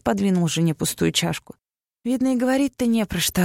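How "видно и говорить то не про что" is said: higher, scornful retort; contemptuous. A narrator's reading. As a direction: toss it off with contempt. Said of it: "отозвалась с презрением".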